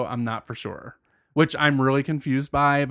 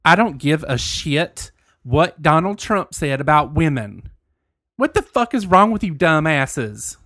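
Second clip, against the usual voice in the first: country voice. Acted. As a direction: read it as a fed-up country ranter. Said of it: "I'm gonna say this in my country voice".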